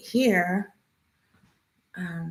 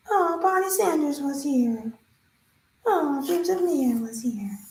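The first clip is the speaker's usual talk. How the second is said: higher-pitched, delighted noticing; pleased surprise; 6 semitones higher than usual. Real, not acted. Streamer spotting viewers' names in the comments, pleasantly surprised. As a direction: lift the pitch on spotting a familiar name.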